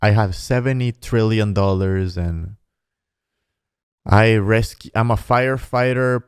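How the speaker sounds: slightly low, even-toned fake sweet talk; hint of an earnest reality-show suitor; mock smooth suitor. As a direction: lightly parody a boastful romantic promise. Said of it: "I can also say s-, fucking shit".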